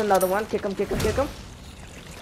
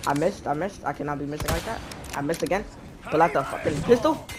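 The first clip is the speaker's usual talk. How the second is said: escalating comedy rant; 3 semitones lower, 6 dB quieter, faster than usual. Real, not acted. Frustrated miss streak building up.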